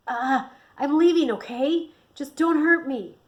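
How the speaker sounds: high, loud, frightened plea; voice cracking. A narrator's reading. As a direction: beg them, voice cracking. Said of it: "his voice cracking a little".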